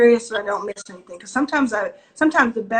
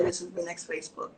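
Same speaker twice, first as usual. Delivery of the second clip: mock overhyped pitch; 6 semitones lower, 13 dB quieter than usual. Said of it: "please don't write to me and say".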